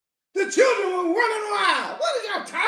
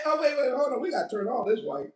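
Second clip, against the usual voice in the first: mock conspirators, softer then a fast hushed rush; hushed plotting; 3 semitones lower, 6 dB quieter, faster than usual. Preacher voicing thieves plotting over the Bible, hushed and quick. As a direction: play the schemers hushing each other, speeding up. Heathens plotting, acted quote.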